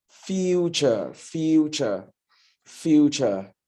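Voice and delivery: future said as FYOO-chuh, repeated with pauses; pronunciation demo of FUTURE. Shown as a demonstration. Grammarian drilling club members, "future" modelled as FYOO-chuh. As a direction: model "future" as FYOO-chuh, each one set apart. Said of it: "the other one that looks like it is".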